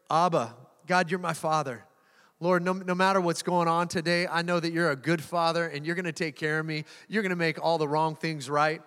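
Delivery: sincere prayer said aloud to God; spoken prayer. Shown as a demonstration. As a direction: pray it out, earnest and steady. Prays out loud.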